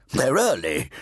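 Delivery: put-on high, slow, commanding old priest; fat Redeemer. A narrator's reading. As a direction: lord it over the boy, slowly.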